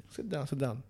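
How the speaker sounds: softly said, putting someone at ease; nice, gentle invitation. Retold or imitated. Imitating the nice intelligence guy offering a seat, gently. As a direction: imitate a kindly official, hushed. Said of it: "very nice to me".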